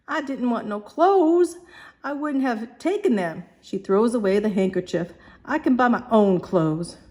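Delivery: high, near-tearful Cockney protest; the girl on the edge of crying; almost in tears. Acted. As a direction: hold back tears as you speak. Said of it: "almost in tears".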